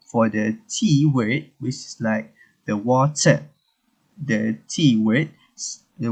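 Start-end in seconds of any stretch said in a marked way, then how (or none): 2.8-3.5 British water with a crisp T and no final R; British pronunciation. Shown as a demonstration. Teacher showing the British T in water, British pronunciation. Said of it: "for the British pronunciation".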